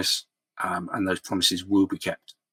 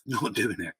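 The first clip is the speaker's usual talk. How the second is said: softer, through a real laugh; rueful laughing; 6 dB quieter than usual. Real, not acted. Podcast host apologising to viewers, laughing ruefully. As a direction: laugh ruefully as you admit it. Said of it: "I'm, I'm laughing, it's not funny".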